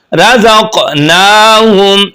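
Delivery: रज़क़नाहुम with a bouncing, echoing क़, drawn out slowly; qalqala on qaf. Shown as a demonstration. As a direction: let the क़ of रज़क़नाहुम bounce and release. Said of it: "कॉफ पर कलकला करेंगे".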